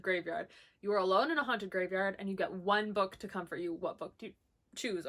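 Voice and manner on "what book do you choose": reading through hiccups; hiccuping mid-sentence. Real, not acted. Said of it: "Oh, I'm hiccuping".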